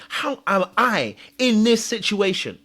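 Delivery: retold exasperation, drawn out; angry disbelief. Asking himself about his situation, mildly angry. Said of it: "You start being angry".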